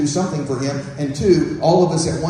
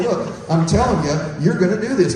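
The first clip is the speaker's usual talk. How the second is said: firm parent; 2 semitones higher than usual. Acted. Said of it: "God puts his foot down".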